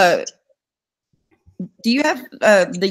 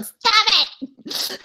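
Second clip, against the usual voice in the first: laughing husband. Retold or imitated. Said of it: "He's like".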